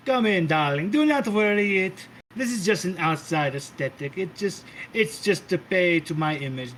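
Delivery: a hint of a doting, theatrical matriarch calling everyone darling; sweet-talking diva hostess, lightly played; lightly voiced grand Mother. Mother ushering guest into castle.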